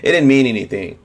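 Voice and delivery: whiny fake-innocent denial, rising on No; hammed-up "I meant no harm"; mock innocent excuse. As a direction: mimic a guilty politician playing innocent. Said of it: "When they talk like that".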